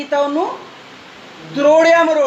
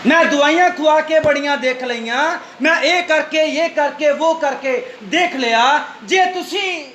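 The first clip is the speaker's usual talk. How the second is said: raised, insistent preacher's delivery; forceful preaching; 5 semitones higher than usual. Real, not acted. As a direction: drive the point home to the congregation. Preacher presses the point. (ਜੋਸ਼ ਨਾਲ ਪ੍ਰਚਾਰ)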